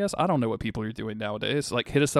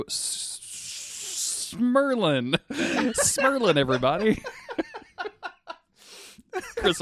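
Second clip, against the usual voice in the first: breaking up into laughter; high giggly laughing; 12 semitones higher, much slower than usual. Real, not acted. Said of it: "I'm losing this".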